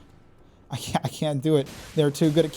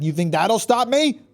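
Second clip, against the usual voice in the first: higher, louder defiant question; mock defiance, raised voice; defiant taunt; 6 semitones higher, 6 dB louder than usual. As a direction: dare the game to stop you. Taunting game's warning, then repeats.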